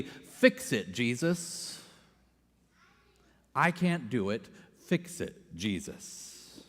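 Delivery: soft pleading, the last Jesus barely breathed; quiet weary prayer. Retold or imitated. Preacher voicing her own tired prayer, soft and pleading. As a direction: pray it low, almost giving up, fading into a whisper. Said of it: "my prayer is simply".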